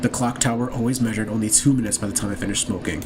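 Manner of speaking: low, measured villain delivery; understated killer. Acted. Killer explaining their little detective game, low and measured.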